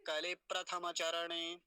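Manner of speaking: slow, full syllables in प्रथमाचरणे; careful recitation demo. Shown as a demonstration. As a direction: draw out प्रथमाचरणे, every vowel sounded. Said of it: "ऐसे करके".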